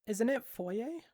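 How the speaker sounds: "foyer" said foy-ay; "foyer" as foy-ay, rising; French-style pronunciation. Shown as a demonstration. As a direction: end "foyer" on an AY sound, questioning. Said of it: "Is it actually pronounced foyer".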